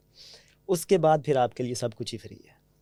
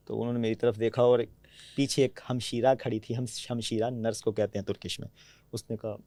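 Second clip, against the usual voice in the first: normal talking voice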